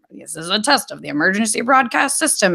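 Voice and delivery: lightly voiced emergency test announcement; imitated broadcast announcer. Explaining TV alert tests, imitated announcer voice. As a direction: read it like an automated TV alert. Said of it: "there's this".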